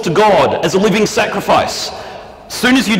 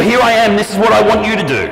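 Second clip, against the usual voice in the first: demanding consumer; 5 semitones higher, faster than usual. Shown as a demonstration. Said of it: "Which one's right?".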